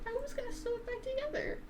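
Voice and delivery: voicing Angie. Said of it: "Angie just is like".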